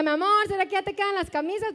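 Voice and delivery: lightly sarcastic sweet question; retold teasing jab at a husband. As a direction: feign innocent curiosity, with mild sarcasm. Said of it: "sarcásticamente le decía".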